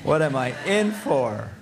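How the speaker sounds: a mild, put-upon groan of worry; Joshua's dismay. Retold or imitated. Joshua dreading the people's promise, mild mock groan. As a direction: sigh it like a leader dreading the job. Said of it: "his face going ashen white".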